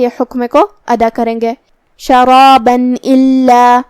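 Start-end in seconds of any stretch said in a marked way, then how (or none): 2.0-3.8 شرابا الا with a clear nun and no nasal hum, slow and chanted; clear izhar. Shown as a demonstration. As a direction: sound the nun plainly before الا. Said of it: "اسے نون ساکن پڑھیں گے اور بغیر غنہ سے". (شرابا الا میں نون ساکن صاف، بغیر غنہ)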